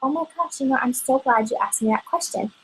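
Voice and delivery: a touch brighter, eager to help; cheerful answer demo. Shown as a demonstration. Consultant demonstrates answering a customer, eager and friendly. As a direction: sound glad she asked. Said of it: "You can always, always, always".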